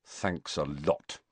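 low, slow, subdued thanks; grudging thanks, dropped in pitch and volume; grim. A narrator's reading. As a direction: grimly drag out the thanks. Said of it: "said Harry grimly".

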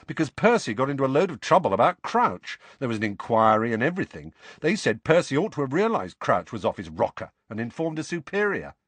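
lightly voiced, chatty brother; animated George. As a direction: tell the family gossip with energy.

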